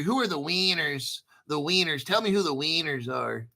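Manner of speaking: mock Latin American accent, "wieners" with a long ee. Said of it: "if you're from a Latin American country".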